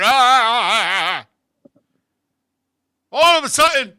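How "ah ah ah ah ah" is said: string of descending "ah" moans; imitated dazed moaning. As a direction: moan stupidly, dropping in pitch. Imitating his dazed sexual reaction.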